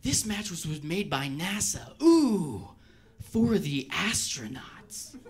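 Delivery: slow, smug boasting; bragging ad voice. Retold or imitated. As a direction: show off the product like a proud salesman. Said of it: "they always brag in that commercial".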